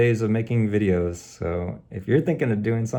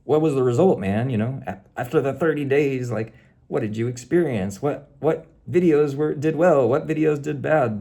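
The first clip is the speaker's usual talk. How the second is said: higher-pitched, imitated viewer questions; put-on voice of curious viewers; imagined curious viewers; 5 semitones higher than usual. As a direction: mimic an audience pressing for results. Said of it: "people might just wanna, like, hear, like".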